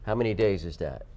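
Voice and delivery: a light, vague mock Godfather accent; some kind of accent. Host explaining coupon rules, light Godfather accent. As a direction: lightly put on a gangster accent. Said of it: "So what accent was that?".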